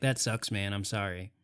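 quiet mock sympathy. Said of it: "Just be like".

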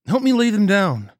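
loud, sharp command; commanding order. Acted. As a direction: bark the order at them. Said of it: "Nagel ordered".

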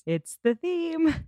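high, drawn-out fan gushing; gushing delight. Real, not acted. Gushes over the swelling music.

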